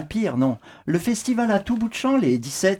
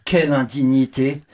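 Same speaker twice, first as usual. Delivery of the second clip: pompous statesman; 5 semitones lower than usual. Retold or imitated. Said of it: "aurait dit le plus petit de nos grands hommes".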